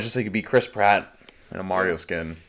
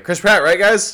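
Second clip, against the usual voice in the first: hyped studio pitch; 11 semitones higher, 8 dB louder, slower than usual. Pretend. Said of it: "they're like".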